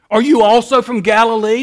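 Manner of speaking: ridiculing. Retold or imitated. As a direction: throw the question as a taunt. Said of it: "they ridicule him".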